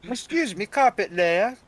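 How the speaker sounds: high teasing call; playfully calling him over; flirty come-on voice. Acted. Mock flirty call to carpet layer.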